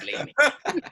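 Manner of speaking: high, loud retold yell; mock shout. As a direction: bark it like a hype call. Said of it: "and I said".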